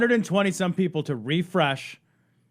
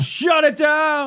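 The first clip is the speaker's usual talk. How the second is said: dramatic shout; 6 semitones higher, 3 dB louder, much slower than usual. Pretend. Repeats louder, joking.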